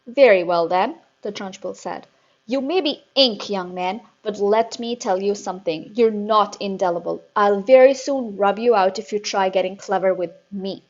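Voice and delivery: loud, menacing threat; menacing headmistress. A narrator's reading. Headmistress threatening Eric, loud and menacing.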